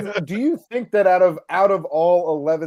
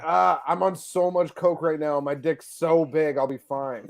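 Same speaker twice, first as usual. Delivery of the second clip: slow, lower dopey drawl; mock coked-up guy; 3 semitones lower, slower than usual. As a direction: play a smug coked-up dude. Mocking a coked-up stabbing victim.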